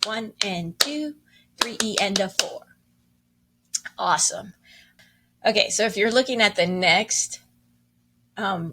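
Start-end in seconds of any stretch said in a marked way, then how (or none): 0.0-2.6 counting along. Shown as a demonstration. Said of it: "So let's do that together".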